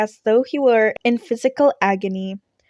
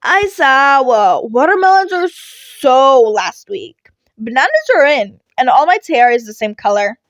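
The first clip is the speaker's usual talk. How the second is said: matter-of-fact; 3 semitones higher, 7 dB louder than usual. A narrator's reading. Midoriya explains banana logic to his teacher, matter-of-fact. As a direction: state it as plain fact. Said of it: "matter-of-factly".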